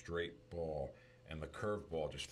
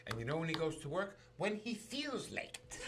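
much higher, laughing through the punchline; 10 semitones higher than usual. Real, not acted. Telling the movie's father joke, laughing. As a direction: giggle out the joke.

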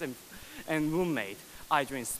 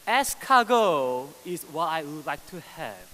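bold declaration; 6 dB louder than usual. Acted. Poet declaring his craving to the audience, loud and grand. Opening line of performed poem.

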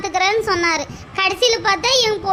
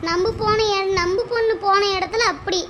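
softer, half-crying complaint; tearful lament; 3 dB quieter than usual. Acted. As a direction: pour out grief over her daughter quietly. Mother laments her daughter's hardship. (அழுகையுடன் புலம்பல்)

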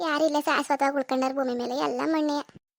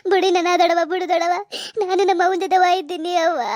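desperate plea; 4 dB louder than usual. Acted. Daughter struggles to go with mother.

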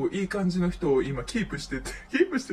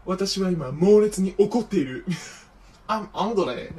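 mock dramatic anger; 2 semitones higher, 5 dB louder than usual. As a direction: declare it like a wronged diva. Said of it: "すごいドラマチックに喋るのよ".

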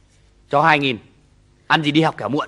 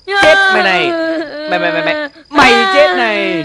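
furious beating; 7 semitones higher than usual. Acted. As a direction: roar at the child while hitting. Father beating child, child crying. (cha giận dữ quát đánh con)

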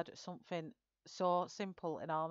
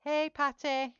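bright, much higher and louder hello; loud greeting; 9 semitones higher, 9 dB louder, slower than usual. Real, not acted. Streamer greets a viewer arriving in chat, loud and high. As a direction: call out a cheerful hello to a viewer.

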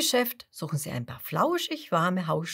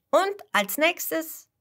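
eager question; 10 semitones higher, 4 dB louder, slower than usual. A narrator's reading. Kasper asks eagerly.

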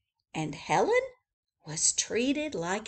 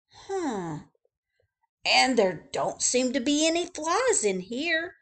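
higher, wondering Joe; puzzled Joe; 5 semitones higher than usual. Acted. Joe noticing no flies, higher and wondering. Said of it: "said Joe".

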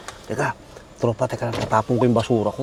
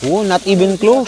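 imitating the app; 5 semitones higher than usual. Echoing the Ghost Tube voice.

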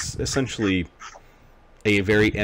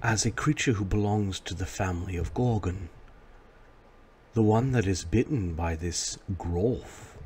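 ominous statue voice; 4 dB quieter than usual. Acted. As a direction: speak as a knowing stone oracle.

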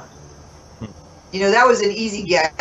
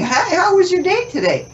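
cheery chatty greeting; 4 semitones higher than usual. Retold or imitated. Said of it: "looking at each other and going".

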